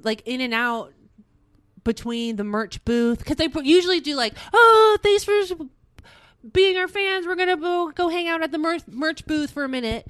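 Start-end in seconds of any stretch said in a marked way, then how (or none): 4.5-10.1 lightly imitated band, higher and chirpy at the start; band thanking fans. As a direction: mimic a band's upbeat thanks, easing off.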